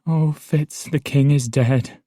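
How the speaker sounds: called from down the hall, urgent; urgent call to a distant prisoner. Acted. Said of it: "she called to me from down the hall".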